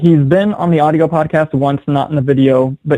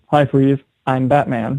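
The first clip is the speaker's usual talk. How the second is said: George Clooney's monotone. Retold or imitated. Podcaster mocking a famous Batman line, monotone. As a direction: flatly imitate a wooden movie hero. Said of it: "just monotone as hell".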